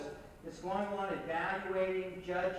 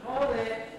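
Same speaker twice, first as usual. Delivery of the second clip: calling the room to order; slower than usual. Real, not acted. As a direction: command the room's attention.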